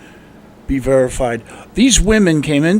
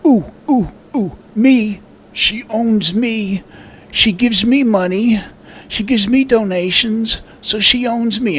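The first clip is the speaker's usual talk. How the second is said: high, eager mock volunteer voice; high-pitched mocking voice, hand raised; mocking eager fan; 8 semitones higher than usual. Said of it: "stand up and say".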